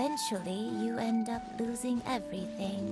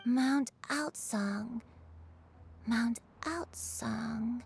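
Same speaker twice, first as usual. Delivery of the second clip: very slow, drawn-out murmur; dazed musing; much slower than usual. Acted. Granny searching her lost memory, dazed musing. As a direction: let the name trail out slowly. Old woman struggles to recall.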